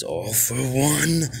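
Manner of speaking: drawn-out, rising cry of a hero; slow, mounting battle cry; dramatic call. Acted. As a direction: call the villain's name, stretched and high. All Might calls out to villain.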